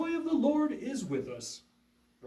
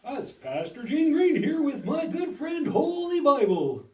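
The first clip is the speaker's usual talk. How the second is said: earnest upbeat school lecture. Acted. Puppet show host intro.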